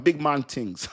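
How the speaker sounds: put-on Jamaican phrasing; playfully borrow a Jamaican accent. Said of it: "I'm not Jamaican".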